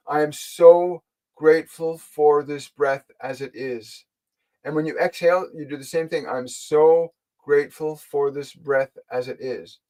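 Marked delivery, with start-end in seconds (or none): 0.1-4.0 slow, measured affirmation; slow, deliberate. Shown as a demonstration. Guide showing a listener a breathing thought, slow and deliberate. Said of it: "slowly and deliberately breathe with that intention". 6.3-9.8 slow, measured affirmation; slow, deliberate. Shown as a demonstration. Guide showing a listener a breathing thought, slow and deliberate. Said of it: "slowly and deliberately breathe with that intention".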